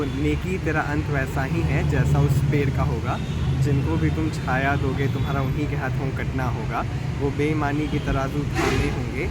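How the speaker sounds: poem recitation. Acted. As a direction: recite a short Hindi-Urdu poem, measured and earnest. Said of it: "can you recite something".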